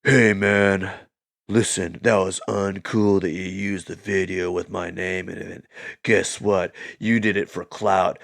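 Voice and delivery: a hint of a smug response video; lightly voiced Logan Paul. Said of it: "Logan Paul does a response".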